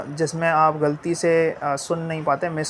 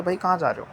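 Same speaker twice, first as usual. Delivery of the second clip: "कहाँ" stressed, falling to the end; normal question tone; faster than usual. Shown as a demonstration. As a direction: ask plainly, "कहाँ" prominent and falling. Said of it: "ये normal tone है".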